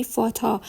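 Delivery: فاتا ending in a full open "a", no r; full final "a". Shown as a demonstration. Teacher gives example of final er, فاتا with full "a". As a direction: finish فاتا on a clean open vowel, neither e nor r.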